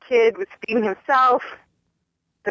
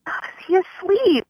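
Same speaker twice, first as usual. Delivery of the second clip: imitating a nosy stranger; 12 semitones higher than usual. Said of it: "So then she goes".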